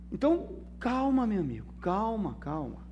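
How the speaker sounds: calming words that fade to almost nothing; soothing calm. Acted. Pastor soothing an anxious listener, fading softly.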